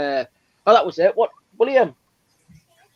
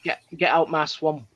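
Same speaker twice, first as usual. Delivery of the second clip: mild, mock Scottish; imitated Scottish accent; 3 semitones lower, 4 dB quieter than usual. Parent quoting little boy's Scottish accent, lightly imitated. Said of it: "is his Scottish".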